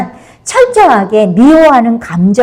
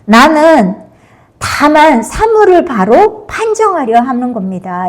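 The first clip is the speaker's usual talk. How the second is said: Jinchung's retort; 3 semitones higher than usual. Retold or imitated. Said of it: "그러니까 진충이".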